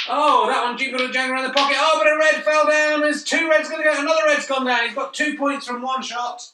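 loud, high excited commentary; excited shout. Real, not acted. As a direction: yell as the reds drop. Balls dropping, commentator erupts.

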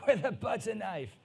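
cracking up mid-quote at the absurd threat; laughing through the quote. Retold or imitated. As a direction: laugh out the last words.

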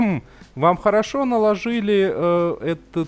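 quoting a nurse. Retold or imitated. Nurse remarking on a bandage, lightly imitated. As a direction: retell the nurse's praise with a hint of her voice. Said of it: "одна из медсестёр произнесла фразу".

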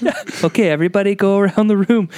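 high-pitched classroom teacher; chirpy teacher leading circle time; high preschool teacher voice. Retold or imitated. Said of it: "I'm gonna be like".

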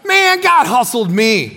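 slow, laughing exclamation; laughing punchline. Real, not acted. Preacher to congregation, delivering the twist with a laugh.

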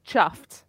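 CHUFFED with the u of cup, falling; correcting pronunciation. Real, not acted. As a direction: say "chuffed" with the vowel of cup, firmly. Corrects the mispronounced word.

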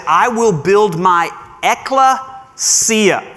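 slow, careful ecclesia, eh-kleh-SEE-ah; Greek word ecclesia. Shown as a demonstration. Preacher introducing Greek word to congregation, slow and careful. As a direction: spell out ecclesia syllable by syllable. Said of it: "a word in Greek that reads like this".

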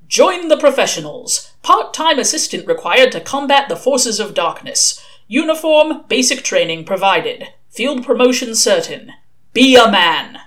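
punchy recruitment ad read; advert read-out. Acted. Recruitment ad in the Gazette, punchy announcing.

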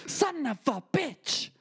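very high, drawn-out outraged cry; imitating angry Italian grandma. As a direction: stretch the curse out in mock fury. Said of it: "put so much feeling behind something".

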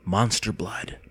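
a hint of spooky announcer; reading the label. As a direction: let the name hang darkly. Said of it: "he read the faded label".

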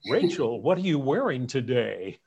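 lightly voiced leering old lecher; a hint of a creepy old man; dirty old man. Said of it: "a chance to sound like a dirty old man and say".

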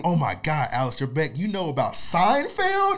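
high rising starstruck question; excited fan. Retold or imitated. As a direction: gush at the host. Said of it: "they be like".

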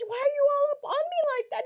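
high, loud and fast mock outburst; retold loud confrontation. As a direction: fire it back at him, high and quick. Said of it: "I said".

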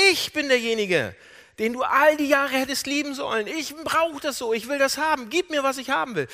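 from firm insistence up to high, loud outburst; building desperate demand. Retold or imitated. Jacob demanding his father's love over his brother's, increasingly desperate. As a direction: build to crying out the need.

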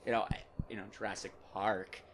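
halting actor impression with stilted laughs; mannered, broken-up star impression; Jeff Goldblum. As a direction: stammer and savour it like an eccentric movie star. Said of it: "slip into, like, a Jeff Goldblum".

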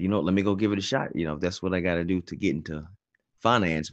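fast, rushed self-talk; quick decision. Retold or imitated. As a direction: rattle it off quickly. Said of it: "and said".

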